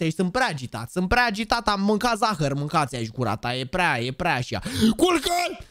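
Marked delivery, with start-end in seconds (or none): 5.0-5.6 high shouted call; catchphrase yell. Real, not acted. (strigăt înalt)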